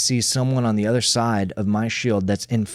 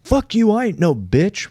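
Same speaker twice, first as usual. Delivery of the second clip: higher-pitched indignant comeback, acted out; mock indignant retort; 6 semitones higher than usual. Reacting to being called a bitch, mock indignant. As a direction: fire back as if insulted, half in play. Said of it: "rather than go".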